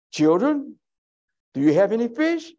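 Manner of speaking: high, gentle call to the disciples; voicing Jesus. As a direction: call out high and kindly across the water. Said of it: "Jesus said to them".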